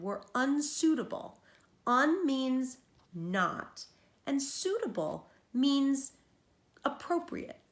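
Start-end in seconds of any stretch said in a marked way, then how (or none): 1.8-7.6 very slow, deliberate teacher explanation; slow explaining. Shown as a demonstration. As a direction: spell out the meaning slowly for a child. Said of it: "teacher explains the word slowly".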